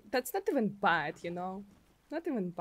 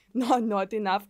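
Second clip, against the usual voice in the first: angry Russian woman; 3 semitones lower, 6 dB louder than usual. Pretend. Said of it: "angry Russian woman".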